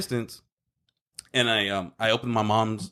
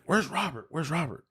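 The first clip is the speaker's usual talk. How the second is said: higher, softer worried mom; imitating mom; 6 semitones higher, 4 dB quieter than usual. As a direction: mimic mom asking anxiously. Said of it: "my mom's like".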